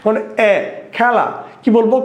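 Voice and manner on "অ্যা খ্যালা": খেলা said "khæla", lips spread wide; open ae vowel. Shown as a demonstration. Teacher showing students the spread-lip sound, open ae. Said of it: "বেশি মেলে বা বেশি প্রসারিত হয়".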